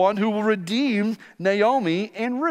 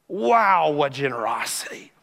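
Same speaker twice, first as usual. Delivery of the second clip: hushed, breathy wonder; awed whisper; 4 semitones lower than usual. Real, not acted. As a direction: whisper it in awe. Preacher marvels aloud at generosity.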